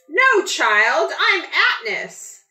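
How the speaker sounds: high, loud, deadpan reply; blank statement. A narrator's reading. Atnis correcting the curious boy, high and deadpan. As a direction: state it flat and firm, no feeling. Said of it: "she states with a blank expression".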